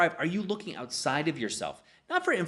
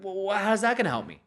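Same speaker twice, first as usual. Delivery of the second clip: baffled patient; 7 semitones higher, 3 dB louder than usual. Retold or imitated.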